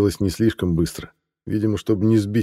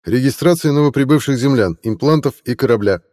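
metallic voice; 6 semitones higher, 4 dB louder than usual. A narrator's reading. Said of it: "голос".

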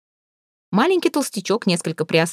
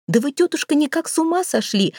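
high, indignant exclamation; exclaiming; 9 semitones higher than usual. A narrator's reading. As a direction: cry out in outrage, pitched up. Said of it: "воскликнул толстяк". (возмущённо восклицает, высоко)

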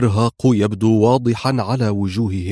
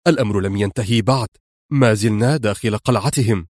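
firm man; 2 semitones lower than usual. Acted. Rescuer pulls her out of the cell, lightly firm and fast. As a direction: cut her off briskly, down to business. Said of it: "أجابها في حزم".

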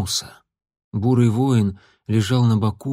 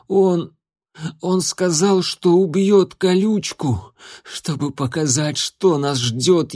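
rising fury; 3 semitones higher than usual. Acted. Recounts the killing in fury.

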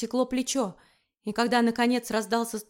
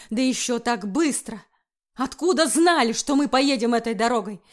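angry interrogation; 2 semitones higher, 3 dB louder than usual. Acted. Wickford interrogates Erika.

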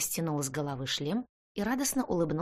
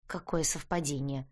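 gloomy grumble; 3 semitones lower than usual. Acted. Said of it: "мрачно буркнула я".

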